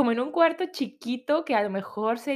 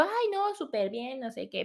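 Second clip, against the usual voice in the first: hushed reply; 4 semitones higher, 6 dB quieter than usual. Retold or imitated. Daughter answering dad on the phone, softly. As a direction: keep it down so nobody hears. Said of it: "pero bajito".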